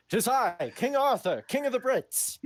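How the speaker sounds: high-pitched mock-heroic proclamation; King Arthur. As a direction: announce yourself grandly, high and hammed-up. Jokingly announces himself as King Arthur.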